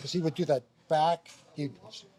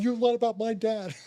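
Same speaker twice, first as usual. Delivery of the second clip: retold indignant accusation; 7 semitones higher than usual. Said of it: "They were so upset".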